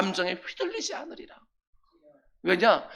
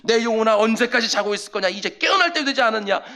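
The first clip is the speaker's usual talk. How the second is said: commanding; 4 dB louder than usual. Shown as a demonstration. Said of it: "내 영혼에 명령 좀 하십시오".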